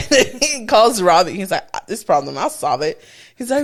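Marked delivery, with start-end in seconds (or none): 1.7-3.0 lightly voiced lower tough guy; mock macho man. Imitating her man stepping in to solve it, mock macho. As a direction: take charge in a mock-deep voice. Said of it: "He was trying to be macho".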